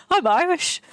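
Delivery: mock Irish. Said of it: "I'm just gonna say".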